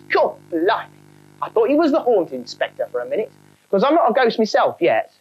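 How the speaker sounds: chirpy high cockney ghost; a cheeky London trainee ghost; cockney spook. Acted. Spook character.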